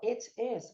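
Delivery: "It is" with short, open i; native-like pronunciation. Shown as a demonstration. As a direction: quote "It is" as a native says it, near "et es". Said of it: "mas a pessoa fala".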